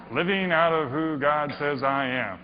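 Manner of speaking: plain, offhand reread after a laugh; shrugging second reading; dismissive reread. Shown as a demonstration. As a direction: toss it off as mere words. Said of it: "Whatever. There's some words".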